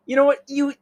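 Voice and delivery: high, delighted genteel lady; charmed old lady thanking him; mock prim lady voice; sweet lady. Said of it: "she's like".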